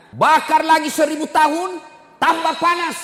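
high, loud shouted sermon line; thundering preaching. Real, not acted. Preacher thundering about hellfire.

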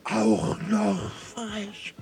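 very slow, stunned outrage; slow, appalled indignation; incredulous indignation. Acted. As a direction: draw each word out in disbelief. Commandant outraged by cheek.

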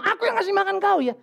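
high, laughing mock boast; a father half-joking to his child about feeding him. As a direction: tease the child through a laugh.

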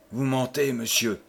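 calme, posé, un peu plus doux; répondre froidement, sans trembler; calme étrange. Acted. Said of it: "dit-elle avec un calme étrange". (la femme répond au connétable, d'un calme étrange)

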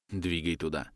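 quiet whispered command; whispered order. A narrator's reading. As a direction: hush it to the engineer. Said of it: "шепчу борт-инженеру". (тихий шёпот)

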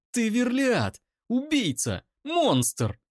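high, loud, near-screaming rage; screaming accusation at the brother's defender; furious scream. Acted. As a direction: hurls every word at him. Eira screams insults.

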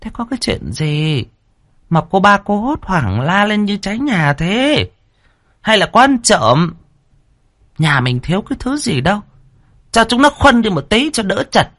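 a teasing matriarch brushing off the fuss; first wife voice. A narrator's reading. First wife teasing the panicked third wife, mocking.

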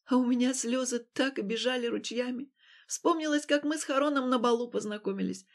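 usual speaking voice

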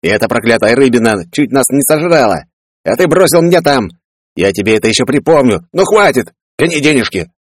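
a pushy brother who holds a grudge; Peller voiced.

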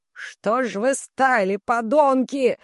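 a slow, furious yell at his sons; Barash yelling. A narrator's reading. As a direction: bark at the useless sons. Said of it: "орёт Бараш". (Бараш орёт на сыновей)

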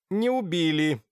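a sharp curt correction; cutting in. A narrator's reading. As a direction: cut him off curtly. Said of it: "оборвал Яхонтов".

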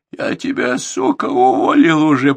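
loud, high, slow rasping threat; hoarse snarl. Acted. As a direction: rasp the threat out at him. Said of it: "прохрипел Борзенко".

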